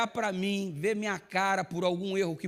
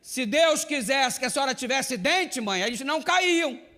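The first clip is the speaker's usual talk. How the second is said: higher, louder mock sermon with a laugh; teasing payback; 7 semitones higher, 6 dB louder than usual. Son mockingly preaches his mother's words back at her, higher and louder. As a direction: give her own lecture back to her, gleefully.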